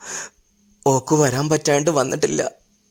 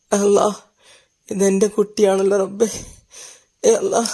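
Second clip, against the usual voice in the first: amazed recognition; 5 semitones higher than usual. Acted. Grandmother recognizing her grandchild, astonished. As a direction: gasp it out as it dawns on you.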